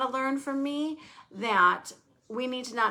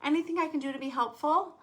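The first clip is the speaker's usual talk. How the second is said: imitating kind offer; 5 semitones higher, faster than usual. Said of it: "you'll say to me".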